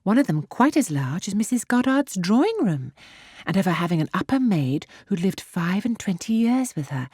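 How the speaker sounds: lightly voiced gushing girl; girlish exultation. A narrator's reading. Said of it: "speak with so much exultation".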